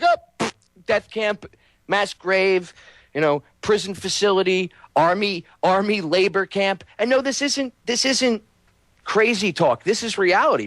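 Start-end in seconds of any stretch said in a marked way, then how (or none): 0.0-6.8 dismissive shrug. Retold or imitated. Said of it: "They're just gonna be like".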